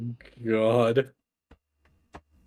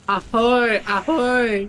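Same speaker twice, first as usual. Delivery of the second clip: Marine's ahoy; 10 semitones higher, 3 dB louder, slower than usual. Retold or imitated.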